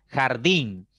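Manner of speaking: «Jardín» con la última sílaba fuerte; acento en «din». Shown as a demonstration. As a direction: carga la voz en el «din» de «Jardín». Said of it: "es la más fuerte, din". (acento marcado en la última sílaba de «Jardín»)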